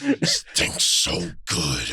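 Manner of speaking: very low, slow baritone voice. Acted. Showing off a baritone for his friends, slow deep voice. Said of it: "Anybody with a good baritone, I'd love".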